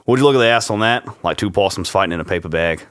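put-on Aussie movie-quote voice; comic Australian impression; Australian accent. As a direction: read it out as an Australian. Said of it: "get in the Australian voice".

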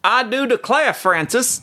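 high-pitched Georgian drawl; mock-genteel Georgian accent. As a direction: do a hammed-up Southern Georgian belle or gent. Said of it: "the best Georgian accent I can do".

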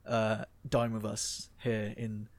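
hushed, halting deference of hotel staff; soft, slow, honoured-to-serve delivery; Ritz staff. Acted. Ritz waiter welcomes Mister Statham to dine, hushed and deferential. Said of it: "people at the Ritz are like".

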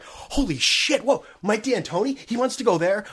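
sarcastic excitement. Pretend. Sarcastic breaking-news excitement.

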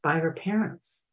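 measured, dramatic story reading; eerie story told with deliberate pauses; story narration. A narrator's reading. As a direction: read a freaky tale deliberately, building to emphasis. Reads own story aloud.

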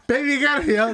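put-on high baby voice, laughing; high squeaky voice. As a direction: squeak it like a small child.

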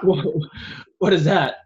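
a Russian guard barking a question in a thick put-on accent; loud mock Russian accent. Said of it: "terrible Russian accent".

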